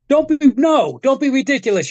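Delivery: high-pitched mock scolding; imitated dismissive mother. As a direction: act out a mom shooting down her kid. Mother refuses the child's request.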